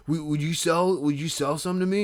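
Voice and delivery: put-on sarcastic drunk. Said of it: "He's like".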